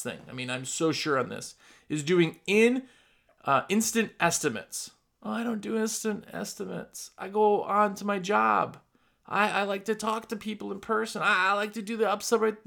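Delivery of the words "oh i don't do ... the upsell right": reluctant contractor. Retold or imitated. Mimics reluctant contractor making excuses.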